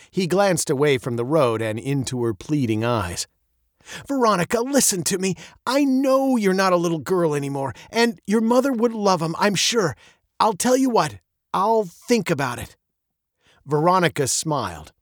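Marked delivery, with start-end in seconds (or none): 4.1-12.8 lightly voiced dad, raised in pitch; relenting father. A narrator's reading. Father softens to daughter's pleading eyes, relenting. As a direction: reason with your child and give a little.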